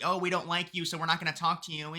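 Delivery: hint of a sulky child's refusal; mock childish refusal; third grader. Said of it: "We're not third graders".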